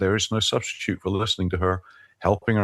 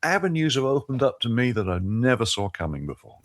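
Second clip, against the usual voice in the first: excited, pitched well above usual; thrilled, high-pitched enthusiasm; creative excitement; 6 semitones higher than usual. Real, not acted. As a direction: let real excitement lift your voice high. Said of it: "hear the creative excitement in your voice".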